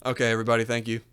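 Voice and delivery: bubbly airhead host voice; sweet, scatterbrained fake host; ditzy Debbie character. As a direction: play a clueless girl hosting her own show.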